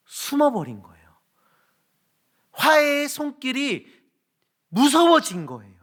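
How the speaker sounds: preaching at full force. Acted. Pastor preaching on Adam and Eve hiding, fervent. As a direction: drive the point home from the pulpit.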